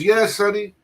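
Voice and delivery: put-on a proud old-timer revealing who he is; old man voice. The speaker telling the cook about his grandfather, mock old-man voice. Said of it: "He goes".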